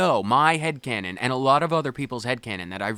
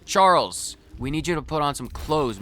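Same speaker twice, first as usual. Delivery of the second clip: calling out; 3 semitones higher, 4 dB louder than usual. Real, not acted. Calling out to shirtless companion.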